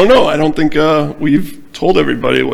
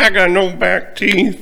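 slow, higher hammed-up Southern drawl; mock Southern accent; 4 semitones higher, slower than usual. Co-host playing the Tennessee caller, Southern accent. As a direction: join in with an exaggerated Southern voice. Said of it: "had a real deep Southern accent".

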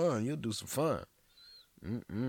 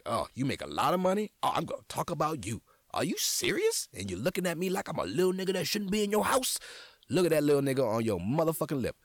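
snooty rich lady; 7 semitones higher, 4 dB louder, faster than usual. Retold or imitated. Voicing imagined rich woman.

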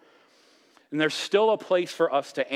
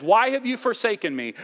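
anguished cry, pitched high and louder; crying out to God; 10 semitones higher, 5 dB louder than usual. Retold or imitated. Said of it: "Jesus cried this out".

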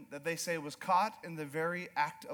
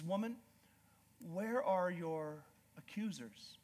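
gentle Jesus; 6 dB quieter, slower than usual. Retold or imitated. Jesus speaks gently to the woman.

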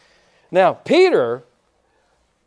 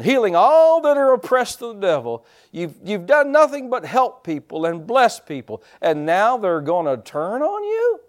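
devil's tempting voice; 7 semitones higher, 4 dB louder than usual. Retold or imitated. Voicing the devil's discouraging whisper.

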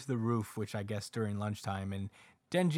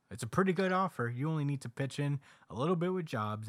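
a hint of a higher, salesy pitch; lightly voiced Sword Guy; 4 semitones higher than usual. Sword Guy pitching the church to Denji, lightly voiced. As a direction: sell the offer, lightly voiced.

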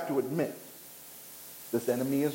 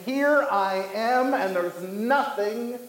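slow, raised, stretched-out proclamation; mock lion's roar; 4 semitones higher than usual. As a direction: proclaim it slowly as a boastful roaring lion. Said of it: "A loud one who is roaring".

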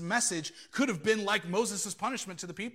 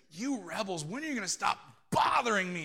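exasperated outburst, punching louder on bothering; mildly angry Moses; 3 dB louder than usual. Acted. Moses scolding the thirsty people at the rock, mildly angry. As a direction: act out a fed-up prophet's burst of anger. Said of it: "Moses struck the rock in anger".

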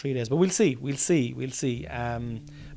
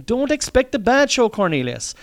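mock listener's voice; 10 semitones higher, 4 dB louder than usual. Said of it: "you're probably saying".

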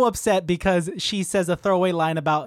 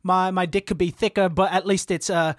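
bad British accent. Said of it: "It's the wrong kind of British accent".

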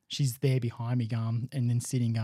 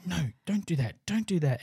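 higher-pitched telling-off of a pet; mock scolding; 5 semitones higher than usual. Owner telling the dog off for digging, lightly scolding. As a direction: plead with the dog in a raised pitch.

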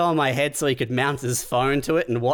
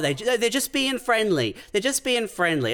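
mocking quote; 6 semitones higher than usual. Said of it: "people go".

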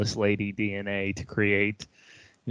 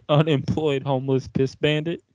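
talking through a mouthful; chewing while talking; 4 semitones higher, 3 dB louder than usual. Real, not acted. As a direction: mouth full of cookie. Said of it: "Pardon my chewing".

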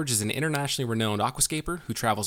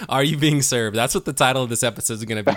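laughing; 4 dB louder than usual. Real, not acted. Jokes about episode title.

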